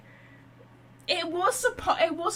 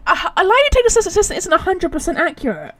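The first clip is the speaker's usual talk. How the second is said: laughing; 5 semitones higher, 11 dB louder, faster than usual. Real, not acted. Laughs while explaining lie detectors.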